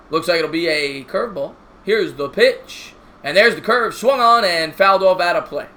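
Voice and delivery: steady broadcaster call of the inning; play-by-play commentary. Acted. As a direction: call the game like a TV announcer. Mock play-by-play of game.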